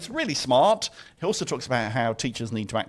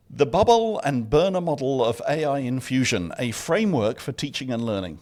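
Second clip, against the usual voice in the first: one breath, no pause for air; all in one breath; 4 dB louder than usual. Shown as a demonstration. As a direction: rattle the title off without pausing. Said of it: "read out the full name of the paper without taking a breath".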